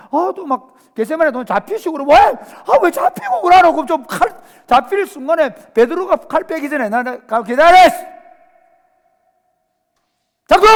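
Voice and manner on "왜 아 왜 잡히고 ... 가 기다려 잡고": 훨씬 높고 크게 외치는 제자; 답답해서 소리쳐; frustrated shout. Retold or imitated. 제자가 답답해 외치는 흉내. (답답해하며 훨씬 높고 크게 외치는 제자)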